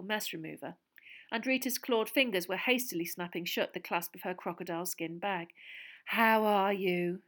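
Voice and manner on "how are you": gushing reporter. A narrator's reading.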